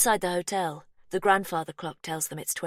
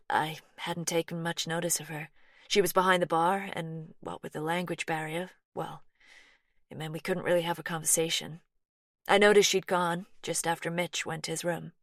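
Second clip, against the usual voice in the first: lightly voiced American woman, a bit anxious; Laurie, light American twang.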